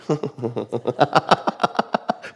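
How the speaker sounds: real chuckling laugh; amused laugh. Real, not acted. Preacher laughing at his own mock warning, amused. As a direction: laugh at your own parody.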